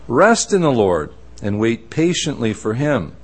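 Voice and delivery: measured, deliberate Bible reading; formal reading aloud from scripture. Acted. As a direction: read the verses out with weighty pauses. Reads scripture aloud to congregation.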